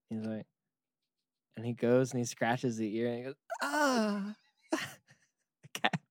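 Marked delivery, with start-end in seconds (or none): 3.6-4.4 high drawn-out human groan; a cat groaning in a human voice; human-voiced cat moan. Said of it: "like a human voice though".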